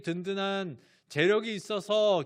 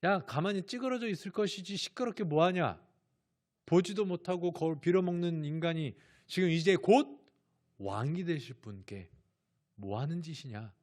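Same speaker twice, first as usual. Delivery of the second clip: scolding. Retold or imitated. Crowd rebukes the noisy blind beggar, mildly acted scolding. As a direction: tell off a beggar in a mock scolding. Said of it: "그를 꾸짖어요".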